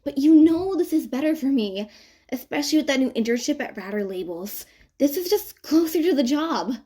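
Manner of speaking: chuckling reply. Acted. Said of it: "she chuckles in return".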